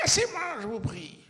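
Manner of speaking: full-force rage breaking out at last; furious yell. Retold or imitated. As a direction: brandish a chair and scream it at your friend. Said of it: "je hurle".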